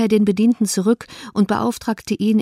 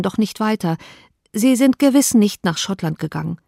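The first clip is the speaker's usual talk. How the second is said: a hint of a young woman in distress, rising pitch; distressed Elizabeth; 3 semitones higher than usual. Elizabeth telling Darcy of her sister's elopement, distressed. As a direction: let her voice climb as the bad news spills out.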